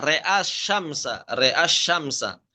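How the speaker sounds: RE'A SYAMSA slowly, e on the r only; imalah when joined. Shown as a demonstration. Teacher repeating the joined reading, slow imalah in RE'A. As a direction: say "re'a syamsa" with re, hamzah staying a. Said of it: "sama seperti ro'al qamar".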